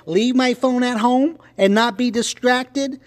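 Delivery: mock little girl from a comic strip; smart-ass little girl. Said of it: "And then the little girl, little smart ass".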